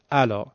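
«الا» with a plain Persian glottal onset; ayn as hamza. Shown as a demonstration. Teacher repeating the student's error, «الا» with hamza for ayn. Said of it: "همزه و با عینش با هم هیچ فرقی ندارن".

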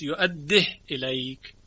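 یؤدیه said as /joædːeh/ with a doubled d; Shuba's reading. Shown as a demonstration. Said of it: "که شعبه خوانده است".

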